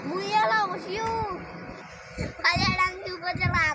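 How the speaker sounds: chatty northern Bengal village dialect, lightly done; Thakurgaon dialect. Shown as a demonstration. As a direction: speak it like a local from Thakurgaon. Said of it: "দেশি ভাষায় ... কথা বলি".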